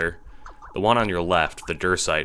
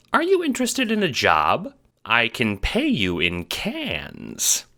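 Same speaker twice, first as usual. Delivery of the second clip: very high-pitched mayor voice; eager mayor; 8 semitones higher than usual. A narrator's reading. Mayor offering the renegade a job, eager. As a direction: make the offer in a squeaky, high voice.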